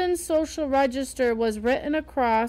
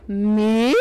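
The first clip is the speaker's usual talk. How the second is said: dismayed squeak; 3 semitones lower, 6 dB louder than usual. Acted. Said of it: "squeaked with dismay".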